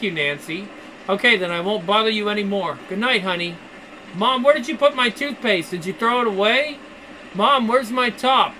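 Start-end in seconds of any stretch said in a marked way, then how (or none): 4.1-8.5 yelling across the room. Acted. Daughters calling from other rooms.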